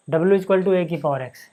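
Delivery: slow, spelled-out dictation pace; slow, deliberate board dictation. Shown as a demonstration. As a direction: dictate each word slowly for students to copy. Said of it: "teacher dictating slowly".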